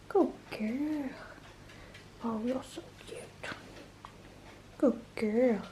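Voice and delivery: high, soft praise for the puppy. Real, not acted. Owner praising new puppy Honey, soft high baby talk.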